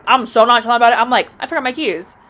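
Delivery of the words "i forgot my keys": offhand and deadpan; dead serious nonchalance. Retold or imitated. Repeating the excuse to the landlord, deadpan nonchalant. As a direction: say it like it's totally normal. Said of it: "I'm dead serious".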